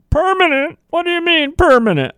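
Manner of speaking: mock surprise. Voicing an imagined startled objector.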